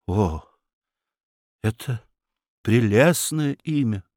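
halting, tender compliment. A narrator's reading. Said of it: "Федяшев нежно посмотрел на Марию". (нежно, с паузами)

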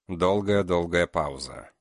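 plain reading voice

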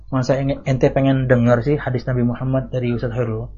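soft, questioning, dissuading tone; imitating a friend feigning concern to sow doubt; mock concerned question. Preacher imitating a jealous friend, soft mock question. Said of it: "Nadanya itu nanya".

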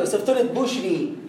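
بشري slowed, with a plain full i; full kasra. Shown as a demonstration. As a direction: say بشري with a pure i. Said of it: "الكسر، افترض يعني".

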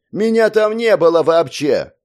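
high, loud desperate plea; a frightened man pleading his innocence. A narrator's reading. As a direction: beg him to believe you. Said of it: "взмолился дядя Стёпа".

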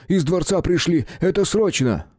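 high, rushed panting report; a winded guard bursting in; breathless urgency. A narrator's reading. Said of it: "выдохнул тот". (задыхаясь)

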